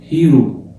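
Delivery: هيرو with the h sounded, English style; English hero. Shown as a demonstration. Teacher giving the English word for students: هيرو with the h voiced. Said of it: "بالإنجليش اسمها إيه".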